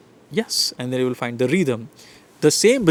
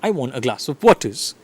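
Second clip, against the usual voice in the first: "glass" and "waters" standing out; rhythmic sentence with beats on "glass" and "waters"; content words stressed. Shown as a demonstration. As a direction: hit "glass" and "waters", linking words light. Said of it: "content words".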